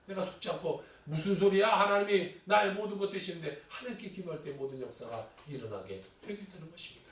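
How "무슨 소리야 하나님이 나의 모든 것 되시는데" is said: loud opening, firm acted retort; emphatic, indignant declaration of faith; defiant rebuff. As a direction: push back hard against a lie. Acted rebuff of the devil's lies.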